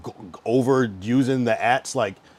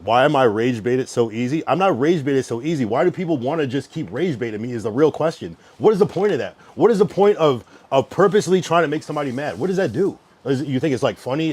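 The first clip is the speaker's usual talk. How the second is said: real frustrated rant, raised voice; exasperated; 4 dB louder than usual. Real, not acted. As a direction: demand answers from people provoking you. Rage baited, challenging the chat.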